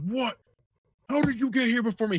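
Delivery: high, fast mock astonishment; shocked disbelief. Friend bursting into the bathroom, high fast shocked disbelief. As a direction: act baffled they beat you there. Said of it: "he's like".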